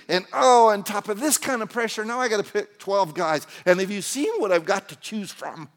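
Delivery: mildly hammed-up fretting under pressure; mock worry. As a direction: pile up the worries in mock panic. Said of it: "He's not worried".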